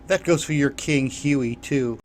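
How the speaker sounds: a cocky challenge, lightly voiced; bold. The boy threatens the king's men, mildly bold. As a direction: push it out brashly. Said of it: "he added boldly".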